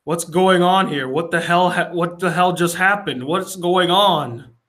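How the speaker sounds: mildly agitated mock confusion; acted confusion. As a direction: act out a man demanding answers. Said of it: "Rhodey's so confused".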